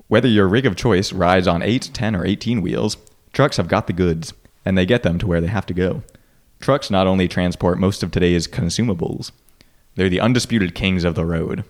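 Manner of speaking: slow stilted ad read; bad acting. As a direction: read it like a clumsy ad. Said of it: "I sound like an idiot when I read these".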